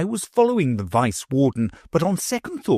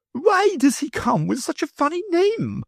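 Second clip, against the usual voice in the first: higher, mocking lady; lady's voice. A narrator's reading. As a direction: scoff at the funny name. Lady asks.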